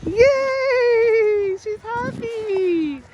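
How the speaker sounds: loud, slow, high cheer; excited cheering. Real, not acted. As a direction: cheer her on, big and drawn out. Cheering baby's first sled ride.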